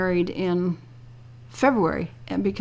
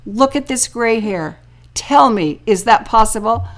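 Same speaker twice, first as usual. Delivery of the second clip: louder through laughter; laughing; 5 dB louder than usual. Retold or imitated. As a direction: tease them while laughing. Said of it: "I burst out laughing and I said".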